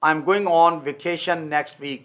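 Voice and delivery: very slow, word by word; slow model sentence. Shown as a demonstration. Teacher slowly modelling a sentence for students. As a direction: spell it out in speech for learners. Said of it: "British इसको बोलेगा".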